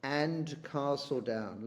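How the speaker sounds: slow, deliberate reading of a line of verse; poem reading. Shown as a demonstration. Teacher reading the poem aloud to the class, slowly. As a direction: savour each word of the line. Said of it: "He says".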